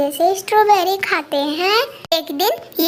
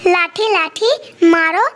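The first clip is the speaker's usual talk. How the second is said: the offended tree ordering a beating; cross, commanding cry; angry command; 2 semitones higher than usual. Acted. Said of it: "उस पेड़ को गुस्सा आ जाता है".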